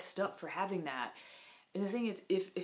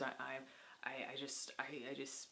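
real faltering whisper; 3 semitones lower, 11 dB quieter than usual. Real, not acted. Breaks off talking about mirrors.

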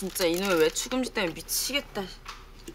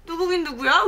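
louder, higher snap back at mom; sharp retort; 5 semitones higher, 5 dB louder than usual. Acted. Daughter snapping back at her mother in a sharp, loud retort. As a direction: fire it straight back at her.

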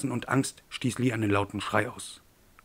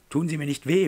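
higher begging, sinking away on the last word; frightened pleading; 6 semitones higher, 4 dB louder than usual. Acted. Man on the ground begs his attacker again, frightened plea. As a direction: beg with a catch of fear.

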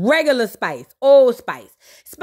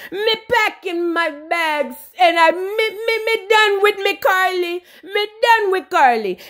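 imitated Jamaican patois huff; Spice; 3 semitones higher than usual. Spice quits on Carly, mock Jamaican huff. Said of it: "And she said".

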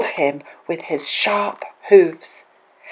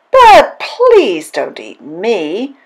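high-pitched pleading goat; second goat's plea; 10 semitones higher, 3 dB louder than usual. A narrator's reading. Second goat offers the troll a bigger one, high pleading. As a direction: plead up high, stretching the begging words.

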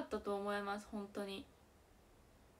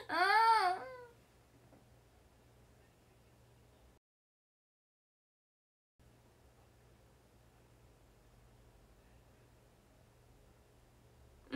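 1 tearful groan; 10 semitones higher, 5 dB louder than usual. Real, not acted. Reacting to players crying.

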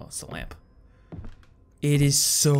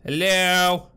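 calling out; 6 semitones higher, 7 dB louder than usual. Real, not acted. Calling into a dark room.

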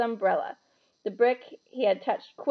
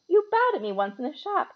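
Harry's voice; 7 semitones higher, 4 dB louder than usual. A narrator's reading. Harry speaking.

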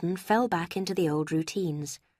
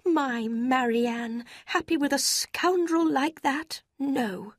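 slow, higher indignant mother; 7 semitones higher, slower than usual. A narrator's reading. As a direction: scorn the idea, slowly.

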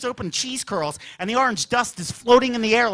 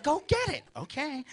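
eager whisper; 6 semitones higher, 9 dB quieter than usual. Retold or imitated. Whispered order.

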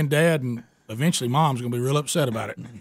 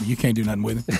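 laughing through the excuse; 5 semitones lower, faster than usual. Retold or imitated. Teller repeats son's excuse.

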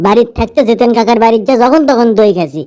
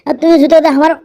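pained wailing; 5 semitones higher than usual. Acted. Kicked in the nose by shoe.

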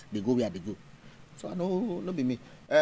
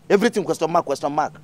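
louder mocking jab on everything; exasperated mockery; 2 semitones higher, 4 dB louder than usual. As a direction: throw Everything question mark back in scorn. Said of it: "come dey answer question mark".

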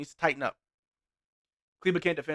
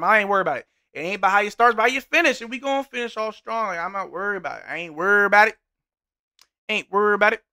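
loud, emphatic brushing off of worry; loud insistence; 6 semitones higher, 8 dB louder, faster than usual. Real, not acted. Streamer loudly reassuring chat about the game: emphatic. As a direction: declare it loudly to chat, no doubt at all.

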